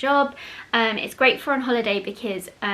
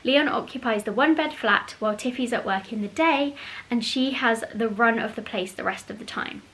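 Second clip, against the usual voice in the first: reading the blurb. Acted. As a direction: read the back cover aloud. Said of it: "So the back page says".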